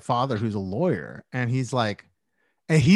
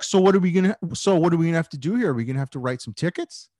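mock ranger weighing up tickets fast; officious ranger; 3 semitones higher, much faster than usual. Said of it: "he's like".

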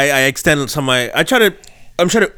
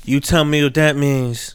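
slow, drawn-out rapper impression; lightly voiced rap line, slowed right down; much slower than usual. Doing a rapper line for his friends, slow and drawn out. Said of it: "that was a great impression".

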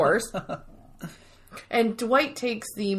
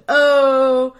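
drawn-out joke delivery; 4 semitones higher, 6 dB louder, much slower than usual. Retold or imitated. Voicing Michael's flirty blood-punch joke.

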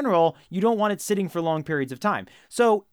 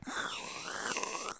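zombie breath; 16 dB quieter than usual. Retold or imitated. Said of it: "zombies more like".

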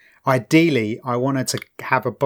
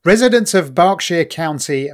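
ordinary talk

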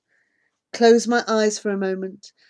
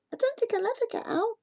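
near tears; 8 dB quieter, faster than usual. Acted. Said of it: "her voice on the edge of tears".

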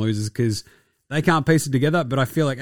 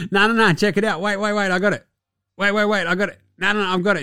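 pitched up, rapid, begging to be let in; a wannabe pleading with a guitar legend; eager pleading kid; 7 semitones higher than usual. Retold or imitated. Mocking Bones pleading to play.

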